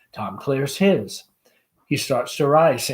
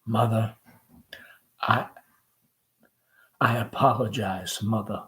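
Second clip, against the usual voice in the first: hoarse; 3 semitones lower, 5 dB quieter than usual. Acted.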